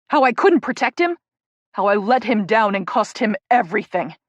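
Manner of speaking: loud, raw, building to a near shout; anguished loud confession rising to a shout; anguished outburst. Acted. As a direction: hurl it at her, hurting. Jake's anguished outburst at Rachel.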